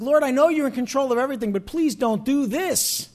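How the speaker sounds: fast then slowed, pleading plea; pleading prayer. Retold or imitated. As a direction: beg the Lord, slowing on please. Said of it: "It's like".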